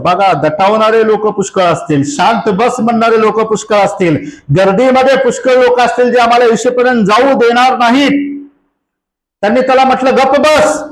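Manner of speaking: sermon climbing gradually in pitch; preaching, building. Real, not acted. (हळूहळू स्वर चढवत प्रवचन)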